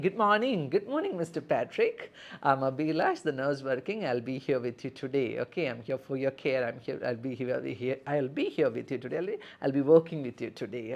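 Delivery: friendly nurse introducing herself; nurse greeting patient. Shown as a demonstration. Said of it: "this is an introduction that you can give".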